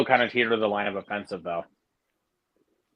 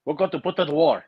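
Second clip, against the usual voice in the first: high, put-on offended voice; mock offended North Koreans; 4 semitones higher than usual. Imitating North Koreans after the movie, in a mock offended voice. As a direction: imitate an affronted official, pitched up. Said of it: "and then they're like".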